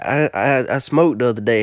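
lightly put-on street accent, syllables slurred together; imitation of classmate's accent. Classmate admitting he smoked, imitated accent. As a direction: confess in a loose imitation of his accent. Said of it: "doing my best imitation of his accent".

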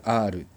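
R said with a rolled tongue. Shown as a demonstration. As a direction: trill the R. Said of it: "これは巻き舌". (巻き舌で震わせる「R」)

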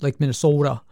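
Minnesota with a long rounded O; Minnesota accent. Shown as a demonstration. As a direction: stretch the O in Minnesota. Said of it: "it's mostly the O's".

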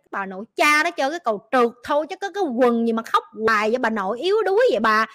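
a mild exasperated rant; mock inner swearing. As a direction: grumble at the crybaby. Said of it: "mình chửi thề vậy á".

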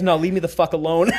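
mock gruff line broken by laughter; can't keep a straight face on the boss's line; laughing through quote. Boss's gruff dismissal, retold laughing.

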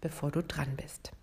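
hushed, unvoiced whisper. Shown as a demonstration. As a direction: whisper it unnoticed. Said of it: "ganz unbemerkt".

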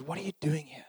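hushed, unvoiced-breath whisper. God speaking to Elijah at the cave, whispering. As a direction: whisper it softly, close to the ear. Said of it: "whispering to him".

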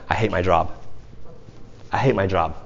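friend's gripe. Retold or imitated. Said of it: "How's it going?".

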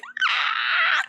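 sudden high-pitched wail; short shriek of disbelief at the parents; high child shriek. Retold or imitated. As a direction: let out a kid's frustrated scream.

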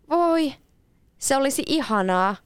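put-on high delighted girl's exclamation on Voi; a girl thrilled by an offer to fly; excited exclaim. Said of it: "huudahti Leena".

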